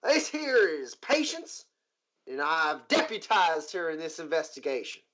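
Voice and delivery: the marshal introducing her new deputy to the owner. Acted. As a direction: present Patience with a marshal's pride. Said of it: "Who's your friend?".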